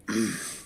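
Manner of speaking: short throaty grunt; imitated grunt of a burning giant; low grunt. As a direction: grunt under your breath as if burned.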